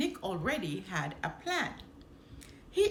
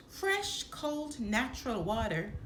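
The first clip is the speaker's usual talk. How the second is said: calling out. Acted. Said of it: "called Nick".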